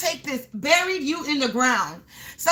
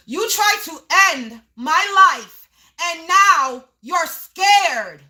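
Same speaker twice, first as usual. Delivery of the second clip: raised voice; 4 dB louder, much slower than usual. Real, not acted. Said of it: "Sorry, collective, for yelling".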